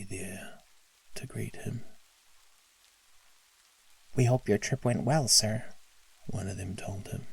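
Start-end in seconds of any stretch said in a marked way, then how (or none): 4.2-5.7 bright chirpy little elf; cheerful helper elf greeting. Acted.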